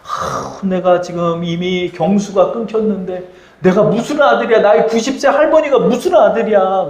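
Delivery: sighed start, rising into mild incredulity; disbelieving inner thought. Acted. Sarah thinking to herself about childbirth at ninety, mildly incredulous. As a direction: voice her private doubt, opening on a breathy sigh. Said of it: "속으로 생각하는 거예요".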